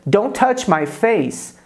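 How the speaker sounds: "Don't touch my face." said slowly, each word clear; teacher models slowly for students, clear and slow; slow model sentence. Shown as a demonstration.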